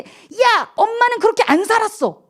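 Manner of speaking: put-on high, sharp reproach to a child; scolding mother. Mother snapping at her seven-year-old, high and sharp.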